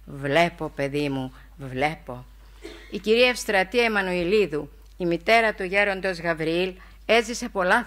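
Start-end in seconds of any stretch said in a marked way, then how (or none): 0.0-2.2 deep mysterious tone. Retold or imitated. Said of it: "με τη βαθιά μυστηριακή έκφραση".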